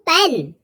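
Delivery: पेन with a strong puff of air on the P; aspirated P opening पेन. Shown as a demonstration. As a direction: say पेन, breath bursting out after the P. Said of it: "पी पर strong puff पड़ रहा है".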